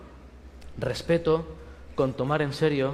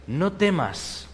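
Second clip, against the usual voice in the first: drawn out, slow and calm; slow reassurance; much slower than usual. Acted. God speaking to Abraham in a vision, slowly. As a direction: stretch each word out gently.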